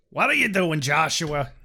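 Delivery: breathy whispered question. Pretend. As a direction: whisper it like a worried dad. Whispered parent line.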